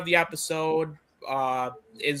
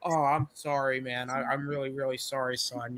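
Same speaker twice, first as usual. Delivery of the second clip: softened, trailing-off dad apology; mock apologetic; 7 dB quieter than usual. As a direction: back down quietly, lightly acted. Voicing dad apologising to son.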